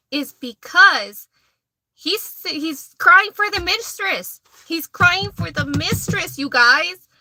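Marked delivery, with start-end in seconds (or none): 2.4-6.4 drawn-out, higher stress on "crying"; incredulous emphasis. Real, not acted. Tells viewers why he cried at the altar, incredulous. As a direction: stretch out "crying" in disbelief, pitched up.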